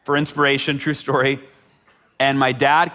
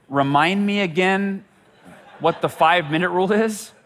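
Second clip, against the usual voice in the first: puzzled dad; 5 semitones higher than usual. Retold or imitated. Dad asks to be reminded.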